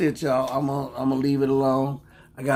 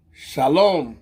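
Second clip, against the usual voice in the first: demo shalom; 4 dB louder than usual. Shown as a demonstration. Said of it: "And do".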